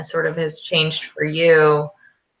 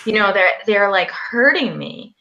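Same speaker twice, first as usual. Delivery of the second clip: pained, halting, pitched up; real strain, higher and faltering; hard to say; 4 semitones higher than usual. Real, not acted. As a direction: struggle to get painful words out. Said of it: "these things are hard for me to say right now".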